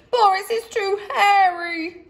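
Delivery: high squeaky mouse yell; a second mouse yelling in alarm. A narrator's reading. Another mouse yelling at Boris, squeaky. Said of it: "yelled another".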